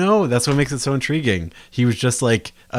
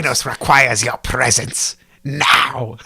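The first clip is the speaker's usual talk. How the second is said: slow, louder, grandiose villain summons; henchman impression; 6 dB louder, slower than usual. Fan mimicking Thanos's henchman, grandiose summons. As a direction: drag it out to a booming NOW. Quoting henchman after discussing his performance.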